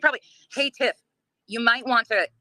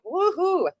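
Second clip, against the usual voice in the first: sarcastic woohoo; 11 semitones higher than usual. Real, not acted. Sarcastic cheer about comments.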